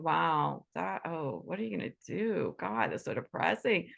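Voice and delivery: low, drooping, pitying comment; gloomy pity. Retold or imitated. Gloomy visitor moping at a depressed friend, pitying. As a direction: sound as glum as the friend who brings you down. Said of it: "coming up to you and going".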